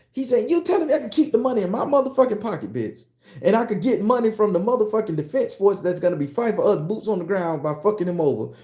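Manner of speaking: high, loud, fast gleeful rant; excited. Acted. Founding father gleefully ranting to the Italian. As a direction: crow over the scheme with glee. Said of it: "was so excited".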